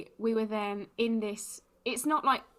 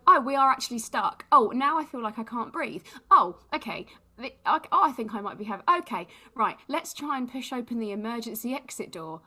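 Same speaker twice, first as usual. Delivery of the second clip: re-enacted mounting panic, starting loud and settling; mock panic attack in a queue; panicking; 3 semitones higher, 6 dB louder than usual. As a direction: act out a flustered panic, stop and start. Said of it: "panicked ... and cried".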